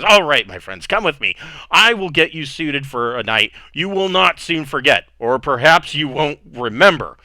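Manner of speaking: a lightly voiced tipsy lord inviting his guests; drunk host. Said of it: "he's already drunk".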